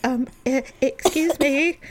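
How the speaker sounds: hesitate, then squeak out a polite interruption; timid interrupter. Retold or imitated. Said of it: "and he's like".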